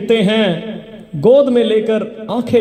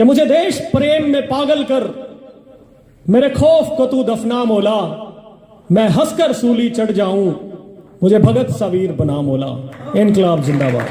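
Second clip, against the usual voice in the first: proud, rhythmic declaiming; heroic verse recitation. Acted. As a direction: ring it out like a patriotic vow.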